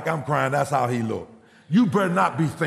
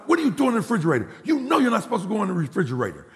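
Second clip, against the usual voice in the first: higher, fast scolding of a son; indignant parent catching someone out; scolding father; 5 semitones higher, much faster than usual. Retold or imitated. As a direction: tell off your boy, rushed and pitched up. Father scolds son caught at fridge.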